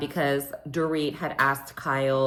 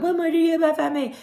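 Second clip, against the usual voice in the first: high, loud mocking yell; a mock shout, pitched high; 12 semitones higher, 4 dB louder, faster than usual. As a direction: imitate her shouting at Dorit. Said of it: "And Kyle's like".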